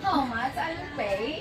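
slow, drawn-out Ilonggo accent demo. Shown as a demonstration. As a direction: put on an Ilonggo accent for a laugh. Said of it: "That is the accent of Ilonggo".

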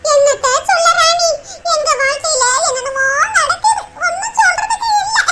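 heavy-hearted lament rising toward tears; woeful, close to crying; sorrowful. Acted. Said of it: "ஏன் இம்புட்டு சோகமா இருக்கீங்க?".

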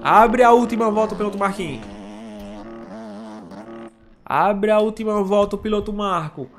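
live race play-by-play; motorsport commentator. Real, not acted.

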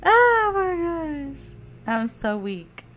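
high, loud disbelieving shout; what are you doing, screamed at the screen; shocked. Real, not acted. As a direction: yell it in pure disbelief. Shocked at the sim's antics.

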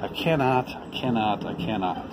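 put-on mild weary voice of an old engine; weary sighing. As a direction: sigh it out, worn to nothing. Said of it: "the rusty old engine sighed".

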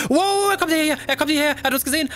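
high startled alarm; sudden fear he is coming. Real, not acted. Human spotted them. (hoher erschrockener Alarm)

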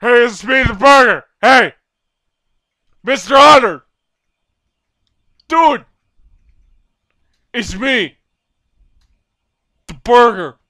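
loud, high goofy yelling at the hunter; cheeky prop yelling for attention; taunting shout. Pretend. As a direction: bait him, shouting playfully.

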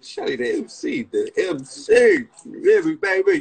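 high, excited cheering; hyped praise. Real, not acted. Streamer hailing Shelly for her picture, excited and high. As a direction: crow it high, stretching out the repeated name.

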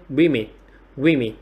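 WOMEN with weight on "WIH", then falling; first-syllable stress. Shown as a demonstration. Teacher telling students to stress first, WOMEN as "WIH-min". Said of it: "Đọc nhấn vào trọng âm đầu tiên".

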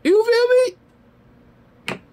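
extremely drawn-out falsetto squeal; very slow high-pitched taunt; mocking taunt. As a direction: stretch it out, high and needling. Taunting mother after counter-accusation.

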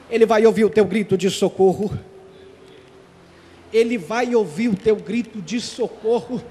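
a calm pastoral invitation to cry out to Jesus; tender closing appeal. Acted.

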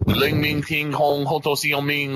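slow, sing-song fake Chinese syllables, hammed up; string nonsense syllables like a bad Asian impression; mock Chinese gibberish. Troll claiming to be Asian in game chat, mock Chinese gibberish. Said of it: "I'm Asian".

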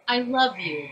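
a hint of a cute creature voice; sweet little creature line, barely shifted; lightly voiced Pokemon. Shown as a demonstration. Voice actor demos Gifliffy's subtext, lightly voiced creature. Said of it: "Gifliffy says".

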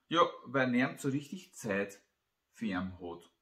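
slightly emphatic, measured Christmas tale reading; story narration. A narrator's reading. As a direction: read the tale out line by line, with pauses. Reads own Christmas story aloud.

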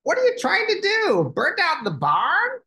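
very high, loud goose squawk; honking goose. Acted. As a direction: honk it out like an outraged goose. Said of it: "a goose honked".

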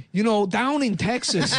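put-on candidate voice. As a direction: raise the pitch, folksy campaign speech. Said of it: "chooses to sound like that".

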